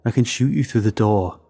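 muffled through a door, threatening. A narrator's reading. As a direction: speak as if behind a closed door. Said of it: "a muffled voice said".

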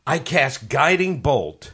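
slow, deliberate spell announcement; in-character spell casting. Acted. Player announcing a spell to the table, in character and deliberate. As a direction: declare the spell in character, slowly. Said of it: "You don't have to say that character".

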